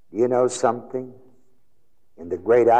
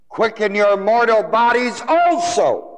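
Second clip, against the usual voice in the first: high, ringing verse with "also" punched at the end; stress on also; 13 semitones higher, 5 dB louder than usual. Shown as a demonstration. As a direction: drive up to "also", hit it hard, then fall. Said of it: "after the word it emphasizes".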